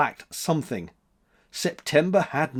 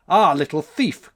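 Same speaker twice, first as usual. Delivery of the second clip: louder accusing cry; cried out; 4 semitones higher, 7 dB louder than usual. A narrator's reading. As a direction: call him out as a thief. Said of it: "cried January".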